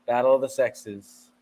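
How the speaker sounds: slow, measured radio plug; radio promo read. Acted. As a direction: announce the show title like radio. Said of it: "you just used your radio voice".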